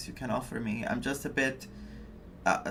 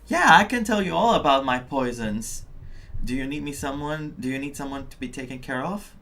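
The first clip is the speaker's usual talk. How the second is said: mock child offering poison; 3 dB louder than usual. Streamer imitates a child offering poison, loud and eager. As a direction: play the eager little kid selling poison. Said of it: "And you hear that from a child".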